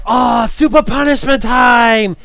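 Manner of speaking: put-on high, slow shouted catchphrase in an Asian accent; imitating an Asian accent. Convention guy's catchphrase, imitated in an Asian accent. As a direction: announce it like a game-show host with an Asian accent. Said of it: "he does, like, this Asian accent".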